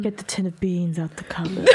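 softly seductive everyday line; sexy voice. Pretend. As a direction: make the mundane sound sultry. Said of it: "Make it sound so sexy".

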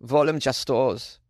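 slow name in a mock German accent. Shown as a demonstration. Thanking a patron by name, hammed-up German accent. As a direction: say "Volim Justos" slowly, as a German would. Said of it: "Perhaps it sounds better with a German accent".

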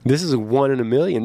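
laughing, brushing mom off; laughing protest. Retold or imitated. Son laughing off his mom's warning, amused. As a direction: chuckle through it, mom you don't get it. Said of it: "And I'm like".

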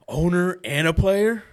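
slow, disbelieving owner and a player; mock incredulous question. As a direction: scoff at the idea. Mocking delusional player.

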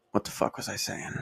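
muttered under breath, lost thread; whispered to self, losing thought; trailing off. Real, not acted. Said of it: "I lost my train of thought".

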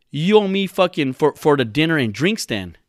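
high, indignant mock demand; mad. Podcaster imitating his friend billing his date, mad. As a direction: imitate an aggrieved guy demanding payback. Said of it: "He gets mad".

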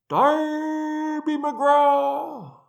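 long, high, drawn-out ghostly wail; distant wail. Acted. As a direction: wail the name across the hills like a far-off ghost. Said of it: "it wailed".

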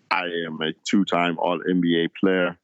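put-on Rudy Gobert's French accent, lightly done; mock French accent. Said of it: "glancing over that accent".

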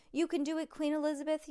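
high-pitched, mild cheering yell; root for your racer without full volume; understated storybook yell; yelled encouragement. A narrator's reading. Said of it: "yelled Jessica".

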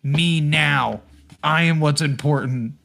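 mock self-important demand, a touch forceful; entitled customer. Customer pushing to the front of the line, mock entitled. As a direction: imitate a pushy customer insisting on priority.

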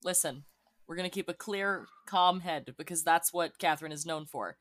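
soft, low, measured reassurance; affected calm. Acted. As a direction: play at keeping a cool head, quietly. Character claims a calm head.

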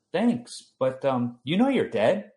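mock-astonished reminder that he's dead; incredulous retort. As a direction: point out the obvious, amazed. Telling dead grandpa in dream.

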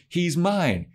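high, jealous "He's mine." with "mine" falling; jealous retort. Acted. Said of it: "And Buffy's like".

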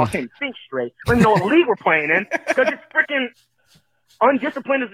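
exasperated voicemail rant at the team; heated rant. Real, not acted. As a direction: vent frustration into the phone. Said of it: "I guess this is just where I'm ranting".

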